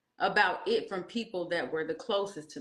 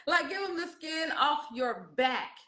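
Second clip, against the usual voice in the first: laughing through it; 7 semitones higher than usual. Retold or imitated.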